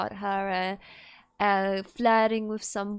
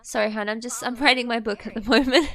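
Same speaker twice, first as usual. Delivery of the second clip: caught-out dad; 4 dB louder than usual. Retold or imitated. Dad caught reading the journal blurts a flustered denial. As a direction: deny snooping in a panic, then cover. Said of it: "It's like".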